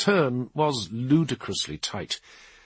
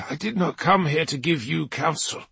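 defiant Dark Angel; 5 semitones higher than usual. Acted. Ormond refusing.

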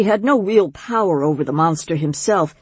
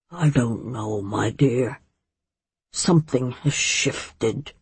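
troubled; 5 semitones lower, 5 dB quieter, slower than usual. A narrator's reading. A cloud over the monster's face.

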